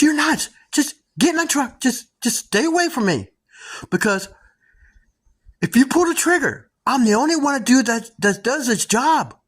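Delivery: mock the spooked driver yelling him off; rattled yelling.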